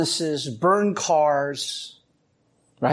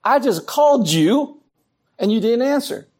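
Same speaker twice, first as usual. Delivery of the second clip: indignant; 3 semitones higher than usual. Retold or imitated. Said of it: "a little bit of that".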